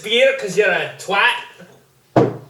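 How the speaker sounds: hammed-up Scottish insult; a jokey Scottish brogue, slow and loud; mock Scottish accent. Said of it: "I like when they say can't".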